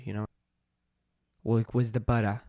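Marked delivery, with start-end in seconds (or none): 1.4-2.4 tentative Aussie accent; amateur attempt at Australian. Shown as a demonstration. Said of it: "let's try Australian".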